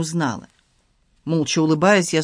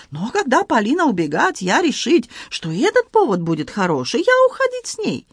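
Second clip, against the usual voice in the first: excited Frenchman in broken Russian, high; Antoine voice; 6 semitones higher than usual. Acted. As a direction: play the flustered Frenchman, pitched high. Antoine speaks.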